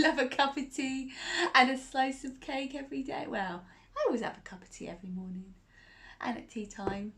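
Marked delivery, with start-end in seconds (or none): 3.3-7.1 quick confiding whisper. Real, not acted. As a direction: whisper it fast like a little secret. Whispered aside to young listeners.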